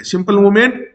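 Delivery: teacher echo on मूवमेंट; emphatic repeat. Shown as a demonstration. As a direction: repeat it to drive the point home. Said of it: "एक simple मूवमेंट है".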